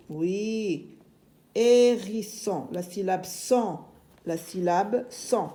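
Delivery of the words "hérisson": "Hérisson" a little slowly, first syllable held; measured teacher's "Hérisson", falling at the end; moderately drawn out. Shown as a demonstration. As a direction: say "Hérisson" clearly, stretching the opening vowel. Repeats the word less stretched.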